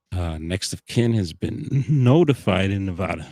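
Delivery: liquid still in the throat; while gargling. Real, not acted. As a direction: talk through a gargle. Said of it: "as I'm, like, gargling there".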